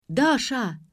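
loud, high wake-up call; yelling. A narrator's reading. Girl yelling above a sleeper's ear, urgently. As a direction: yell her name to wake her. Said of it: "заорал кто-то над моим ухом".

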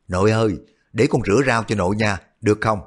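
quick, sweet coaxing plea; a granddaughter sweet-talking grandma; cutesy wheedling. Acted. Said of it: "nói với vẻ nũng nịu".

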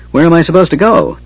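high, frantic question; wild shout. A narrator's reading. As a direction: call out in a fluster, pitch well up. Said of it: "Tass shouted wildly".

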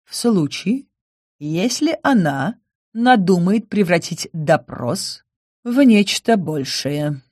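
slow dark prediction; grim, slow. Acted. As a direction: foretell it slowly and grimly. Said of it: "мрачно предрёк Грисвольд".

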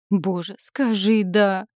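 slow, pleading moan; mild groan. A narrator's reading. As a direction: beg it, drawn out. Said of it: "простонала Машка". (протяжно, со стоном)

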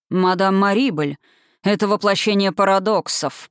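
slow drawn-out wizard line. Acted. The wizard muses on Madame Marybel, slow drawl. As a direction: stretch the words lazily. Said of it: "протянул волшебник".

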